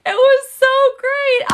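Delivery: high, loud and laughing; delighted. Real, not acted. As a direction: gush with joy.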